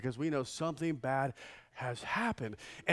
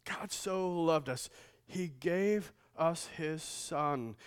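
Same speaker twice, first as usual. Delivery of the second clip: «loved» softly drawn out, slow and gentle; слow reflective phrasing; quiet, reverent reading; slower than usual. Shown as a demonstration. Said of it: "it's emphatic".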